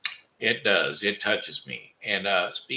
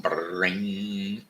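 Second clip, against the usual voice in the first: telephone ring. Retold or imitated. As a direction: fade the phone bell. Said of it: "the old retro phone rings".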